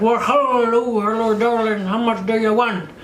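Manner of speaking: hammed-up Irish client impression; mock Irish accent. Client asking her price, mock Irish accent. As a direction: put on a broad, silly Irish lilt. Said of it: "he sounded way sexier than that".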